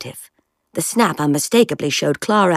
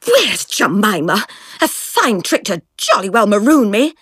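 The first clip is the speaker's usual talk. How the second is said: furious schoolgirl demanding answers; livid; 4 semitones higher than usual. Acted. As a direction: spit it out in a rage. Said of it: "She was livid".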